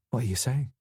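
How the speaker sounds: weary Yorkshire widow, unenthusiastic; flat, grudging Yorkshire voice; Yorkshire accent. A narrator's reading. Grieving widow offering tea, in a Yorkshire accent. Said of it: "She had a solid Yorkshire accent".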